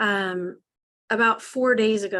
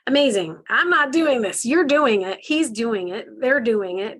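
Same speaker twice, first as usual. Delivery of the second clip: excited exclamation; 3 semitones higher, 6 dB louder than usual. Real, not acted. Leader marvels at the group's visions, loud and excited. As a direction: pour out the joy, each phrase a fresh exclamation.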